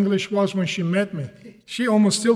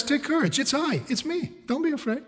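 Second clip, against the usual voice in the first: higher, softening comfort; gently calm someone frightened, voice lifted; acted light reassurance; reassuring; 5 semitones higher, 5 dB quieter than usual. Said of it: "I can see that reassurance in the words".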